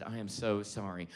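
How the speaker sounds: low, soft mock contrition; meek apology. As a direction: apologize small and sheepish. Scolded actor apologizing, retold.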